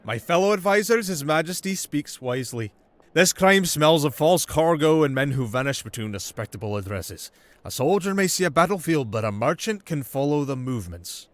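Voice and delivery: a sly noble flattering the crown; Marquis's voice. Acted. Marin praising the prince before the advisors.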